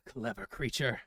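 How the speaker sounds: low, sly creature voice; a clever beast sizing you up. Acted.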